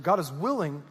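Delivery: "willing" leaned on, said firmly; stress on willing. Shown as a demonstration. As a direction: land with emphasis on "willing". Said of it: "I sure want to emphasize that word willing".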